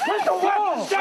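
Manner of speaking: urgent shouted order. Real, not acted. Trying to stop someone with a weapon, urgent shout. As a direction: shout to make them disarm.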